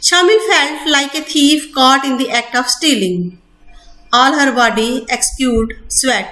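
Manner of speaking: slow, deliberate textbook reading; measured classroom reading; slow reading aloud. Acted. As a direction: read each word out carefully for students. Reading English text aloud slowly.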